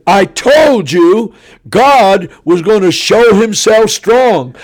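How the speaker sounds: loud, high, slow proclamation; triumphant preaching. Retold or imitated. A preacher back on his feet telling the crowd, slow and loud. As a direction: proclaim it like a vindicated prophet.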